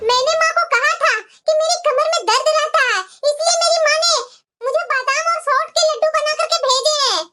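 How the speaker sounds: mildly angry complaint; indignant scolding. Acted. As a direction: insist crossly that these are yours. Daughter-in-law keeps quarrelling over laddus. (हल्के गुस्से में जताते हुए)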